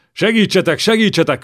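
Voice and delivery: put-on young king screaming for rescue amid enemies; screaming for help. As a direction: howl it at the top of your lungs. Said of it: "üvöltötte torka szakadtából".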